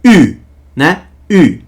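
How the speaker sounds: Ü said with rounded lips, a pursed German u; German ü sound. Shown as a demonstration. Teacher shows the German umlaut vowel, lips pursed. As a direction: push the lips into a pout for Ü. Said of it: "Ou um U tremado no alemão".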